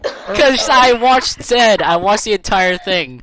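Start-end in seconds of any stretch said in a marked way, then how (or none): 0.0-1.8 slow, high, through helpless laughter; laughing. Real, not acted. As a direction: squeeze it out between laughs. Laughing fit after the bit.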